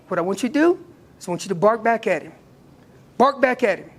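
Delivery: "bark back" hard and punchy; stress on bark back. Shown as a demonstration. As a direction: hit "bark back" like an order. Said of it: "At that point".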